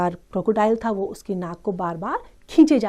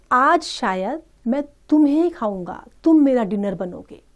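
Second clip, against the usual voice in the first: menacing crocodile; 4 semitones higher, much faster than usual. Acted. Crocodile telling the caught child he will be eaten, gloating. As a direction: gloat over the dinner.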